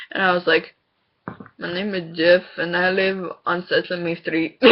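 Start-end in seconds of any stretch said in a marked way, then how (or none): 1.6-4.6 giggling through the words; trying not to laugh; laughing while talking. Retold or imitated. Prank line, laughing.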